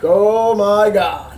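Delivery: low, slow, drawn-out dismay; retold sinking reaction, dragged out. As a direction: let each word sag slowly in disbelief. Reacting to the plane switch.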